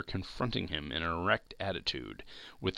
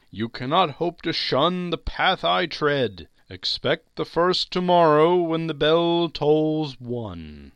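warning ghost; 8 semitones higher, 6 dB louder than usual. Acted. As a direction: intone it like a spectre foretelling doom. Ghost warns Scrooge.

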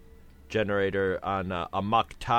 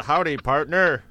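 put-on cowboy accent; 3 semitones higher, 5 dB louder than usual. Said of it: "I picture, like, a skinny white guy with a ten-gallon hat".

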